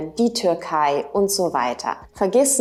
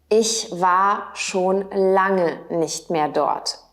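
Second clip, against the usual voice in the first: slow, clear repeat for learners; careful slow teacher repeat; slowed model repeat; slower than usual. Shown as a demonstration. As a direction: say it again slowly so they can follow. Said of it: "Auch möglich".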